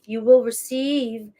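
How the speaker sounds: slow, drawn-out preacher cadence; a lightly voiced oratorical Martin Luther King; mock sermon delivery of the words. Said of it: "why did I just say it like that?".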